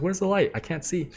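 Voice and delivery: high-pitched imitation of a questioning girl; imitating the girl. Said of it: "and she's like".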